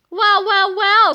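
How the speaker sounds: loud, drawn-out villain gloat; menacing well well well. A narrator's reading. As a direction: savour having them trapped. Villain corners the boys.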